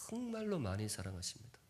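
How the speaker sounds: soft and earnest. Shown as a demonstration. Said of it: "repeated softer".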